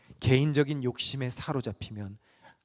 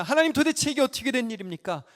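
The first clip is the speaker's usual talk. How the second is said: mock protest; 5 semitones higher than usual. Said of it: "거칠게 항변합니다".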